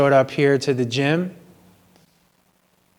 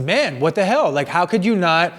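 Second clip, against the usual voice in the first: mildly raised, higher retelling of the argument; retold raised voice; 3 semitones higher than usual. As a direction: re-enact the outburst lightly, pitch up. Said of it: "or I raised my voice and I said".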